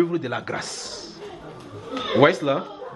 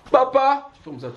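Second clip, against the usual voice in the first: put-on child calling out; 10 semitones higher than usual. Child begging his father, pleading call. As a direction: call papa up high to get his attention.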